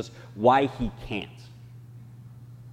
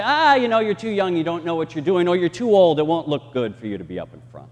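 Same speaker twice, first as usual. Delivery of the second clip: dismissive church; 3 semitones higher, 4 dB louder, faster than usual. Retold or imitated. Church voicing dismissive excuses.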